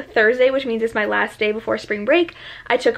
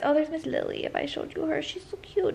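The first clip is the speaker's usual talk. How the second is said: cooing; 5 semitones higher, 10 dB quieter than usual. Real, not acted. Cooing at her pet.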